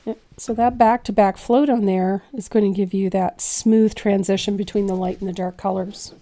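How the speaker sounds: raspy voice that keeps cracking; rough, gravelly throat, voice breaking; hoarse cracking voice. Real, not acted. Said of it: "I sound like Gravel Gertie today. My voice keeps cracking".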